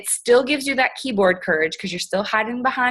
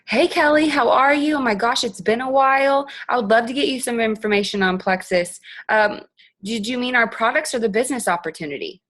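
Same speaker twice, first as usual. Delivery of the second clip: higher, bright-eyed greeting that settles down; bubbly voice message; 3 semitones higher than usual. Shown as a demonstration. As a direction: gush hello like an old friend, then ease into the offer. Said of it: "you're gonna go".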